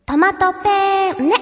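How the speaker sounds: ぶりっ子. Pretend. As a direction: draw the word out, playing lightly cute. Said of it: "ぶりっ子トマトペンネできますか？". (ぶりっ子っぽく、ゆっくり伸ばして)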